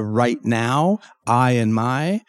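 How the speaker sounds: "right now" and "I and my" drawn out firmly; stressed words. Shown as a demonstration. Coach showing which words to stress, stressed and drawn out. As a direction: lean slowly on "right now, I and my". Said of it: "really, really stress".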